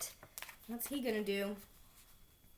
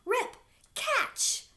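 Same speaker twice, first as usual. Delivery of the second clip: high, loud call across the room; calling yell; 7 dB louder than usual. A narrator's reading. Alexander tossing the backpack to Rip, loud call. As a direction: throw the words with the backpack. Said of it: "Alexander yelled".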